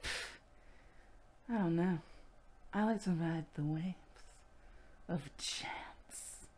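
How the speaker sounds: mock-cool, trailing into a whisper; aloof, with long pauses; airy nonchalance. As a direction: drift off into a soft, whispered musing. Voicing an aloof, drifting Riker.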